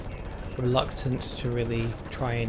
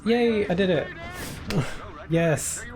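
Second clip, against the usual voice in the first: excited cheer; 5 semitones higher than usual. Real, not acted. Boss beaten, cheering.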